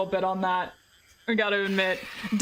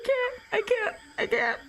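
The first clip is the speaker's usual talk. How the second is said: high, squeaky, laugh-choked voice; helpless laughter; 10 semitones higher than usual. Real, not acted. Streamer unable to go on reading, helpless high laughter. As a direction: give up, overcome with giggles. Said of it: "she can't keep a straight face".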